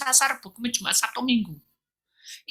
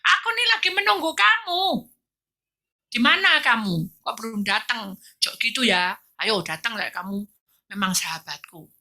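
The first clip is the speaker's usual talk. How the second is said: friend's message; 2 semitones higher than usual. Retold or imitated. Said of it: "di W A sama temannya".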